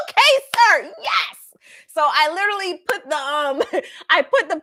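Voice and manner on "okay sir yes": much higher, louder laughing agreement; giggly meek yes sir. Retold or imitated. Agreeing sheepishly to her pastor, high laughing yes.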